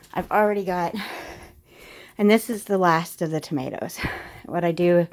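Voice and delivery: breathless, puffing between words; talking while winded; out of breath. Real, not acted. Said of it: "I'm out of breath".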